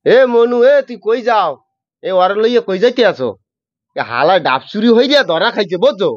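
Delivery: Barishal dialect, calling out to a passer-by; lightly voiced Barishal villager scolding a thief. Shown as a demonstration. Host asks for Barishal dialect, guest calls out in Barishal dialect. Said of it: "কিন্তু বরিশালের ভাষায়".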